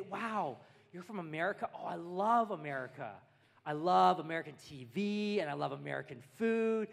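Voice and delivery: mock enthusiasm, leaning loudly on key words; gushing fans. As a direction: play an adoring fan of America. Imitates gushing fans of America.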